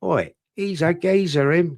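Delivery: a light, playful London geezer accent, Oi punched. Shown as a demonstration. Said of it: "My best London accent".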